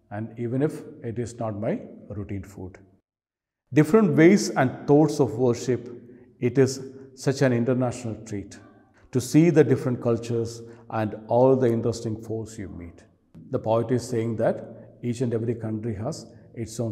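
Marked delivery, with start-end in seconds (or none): 3.7-13.0 poem reading. Acted. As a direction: recite verse, each line starting loud and falling away. Reads the poem aloud.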